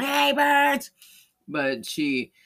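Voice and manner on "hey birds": high, loud mock call; pretend yell. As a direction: call out sharply to the birds. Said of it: "it's not like she yelled out".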